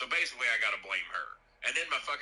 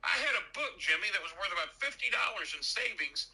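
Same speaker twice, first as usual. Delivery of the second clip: rising distress; 8 semitones higher than usual. Retold or imitated. Man telling Jimmy about losing coupons, climbing distressed pitch. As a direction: voice climbing much higher in dismay.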